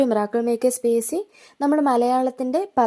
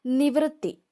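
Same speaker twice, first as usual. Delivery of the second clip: നിവൃത്തി pitched higher, falling; announced word; 4 semitones higher, slower than usual. Shown as a demonstration. Teacher announcing the word to students, pitched up. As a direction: call out നിവൃത്തി on a raised note. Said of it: "നീ വൃ".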